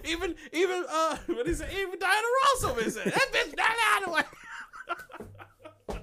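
high, laughing through words. Real, not acted. Recalling the Holloway case, laughing. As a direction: get it out between laughs.

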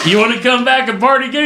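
a hint of a cheerful doctor inviting; imitating the doc. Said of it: "He goes".

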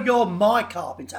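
mock condescending customer. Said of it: "Like something from Downton Abbey".

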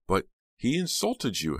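high, loud, slow protest; indignant cry. A narrator's reading. Heather protesting to Snowman, loud and high. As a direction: make him see the insult. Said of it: "Heather cried".

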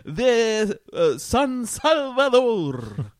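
slow, grand vampire boast; Dracula voice. Acted. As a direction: swell up on San Salvador. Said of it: "Dracula was Salvi".

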